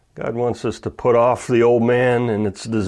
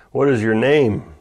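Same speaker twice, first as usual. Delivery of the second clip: a bit louder, pressing question; louder demand; 2 semitones higher, 3 dB louder than usual. Retold or imitated. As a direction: push the question harder. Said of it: "and more loudly".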